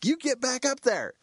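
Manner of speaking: high, firm command; stern order. Retold or imitated. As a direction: order him back up the tree. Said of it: "The facilitator goes".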